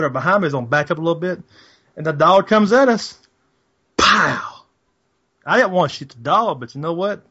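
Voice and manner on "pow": imitated gunshot.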